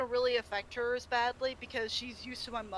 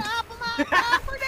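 put-on louder, higher old granny yell; Granny Smith voice; 8 semitones higher, 7 dB louder than usual. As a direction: chase them off like an old granny. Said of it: "You sounded like Granny Smith".

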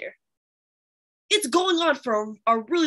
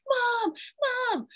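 calling mom; 13 semitones higher than usual. Retold or imitated. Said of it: "I wasn't like".

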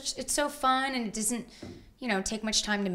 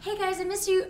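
imitating Graham; 10 semitones higher than usual. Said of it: "he's like".

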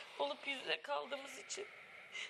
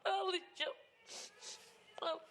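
defiant through tears; tearful insistence; 5 semitones higher than usual. Real, not acted. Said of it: "Ağlama".

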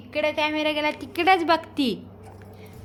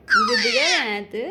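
much higher sing-song coo on गुडगल; 13 semitones higher than usual. Real, not acted. Mother coaxing baby, repeats. (बाळाशी उंच आवाजात लाडिक बोलणे)

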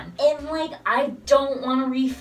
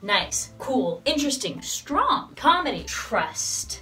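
spoken word; 2 semitones lower than usual. Pretend. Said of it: "spoken word, maybe?".

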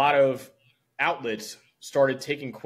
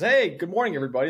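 really chipper; 4 semitones higher, 4 dB louder, faster than usual. Retold or imitated. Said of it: "like, really chipper".

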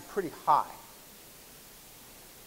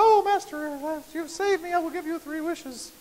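genie voice; 10 semitones higher than usual. Acted. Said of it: "somebody speaks in a voice like that".

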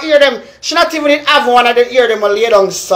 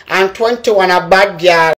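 slow and lower, falling at the end; slower, lower repeat; 4 semitones lower than usual. Shown as a demonstration. Repeating the number list to the viewers, slow and lower. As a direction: drag it out slowly and drop the pitch. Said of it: "And twenty-one a Orange Stella".

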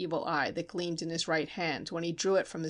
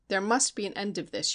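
villain's warning. Acted. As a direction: press "must" as a mild threat. Steinmetz warns narrator.

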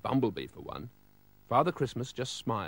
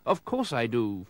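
solemnly. Acted. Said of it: "said solemnly".

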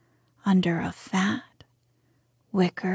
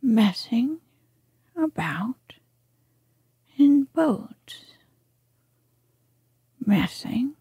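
drifting, dreamy whispered musing; 4 semitones higher than usual. Acted. The rat lost in his love of boats, dreamily whispering. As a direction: let each word float away as if in a daydream. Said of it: "he went on dreamily".

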